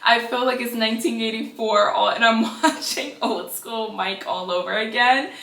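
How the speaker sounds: reading a joke tweet, laughs breaking in; tweet read laughing. Retold or imitated. Vlogger reads a funny tweet to viewers, laughing through it. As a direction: read it like you can't hold the giggle. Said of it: "most hilarious tweet".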